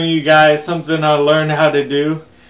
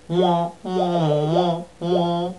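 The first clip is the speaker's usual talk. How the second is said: muffled wah wah talk; 2 semitones higher, 4 dB quieter, much slower than usual. Shown as a demonstration. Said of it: "I'll do a little bit more".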